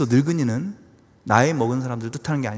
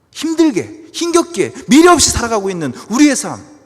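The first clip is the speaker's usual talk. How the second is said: high, loud preaching lament; anguished complaint; 9 semitones higher, 9 dB louder than usual. Acted. Believer lamenting a hard life to God, loud high complaint. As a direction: cry out each hardship with raised pitch.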